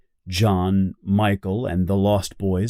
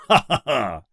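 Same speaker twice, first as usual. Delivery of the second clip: villain laugh. Acted. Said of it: "laughs Hook".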